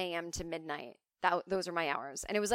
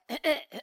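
demo throat clearing; 7 semitones higher, 4 dB louder than usual. Shown as a demonstration. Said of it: "and my voice was like this".

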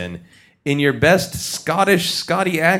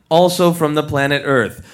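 usual speaking voice

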